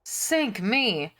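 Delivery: mock pirate accent. Pirate grumbling about his lot, mock pirate accent. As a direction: growl it like a stage pirate. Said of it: "I gave him that accent".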